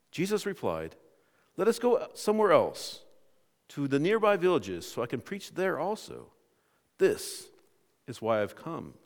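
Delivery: measured, emphatic Bible reading; scripture reading. Acted. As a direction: read the passage out to a congregation. Reads scripture aloud to congregation.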